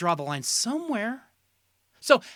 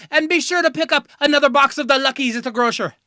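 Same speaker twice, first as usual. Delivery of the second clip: lightly voiced Irish cereal elf, pitched up; cereal-mascot Irish elf; 4 semitones higher, 4 dB louder than usual. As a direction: pitch it higher like a little elf selling cereal. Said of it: "a little Irish elf dancing around".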